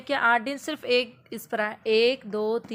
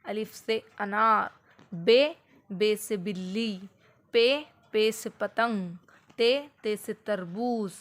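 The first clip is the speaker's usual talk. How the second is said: slow, sing-song letter drill; slow chant of alphabet words; slow teaching drill; slower than usual. Shown as a demonstration. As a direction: spell it out slowly for a small child. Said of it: "जैसे कि अलिफ".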